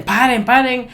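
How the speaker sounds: high, loud yell; shouting stop. Shown as a demonstration. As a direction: yell it like a panicked crowd. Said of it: "aunque así griten".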